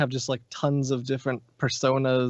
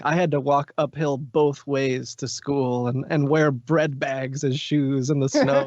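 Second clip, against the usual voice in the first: grandma voice. Pretend. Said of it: "things that my grandma or some grandma would say".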